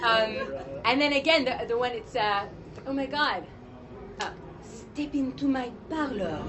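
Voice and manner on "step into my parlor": Widowmaker line. Shown as a demonstration. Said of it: "I love Widowmaker".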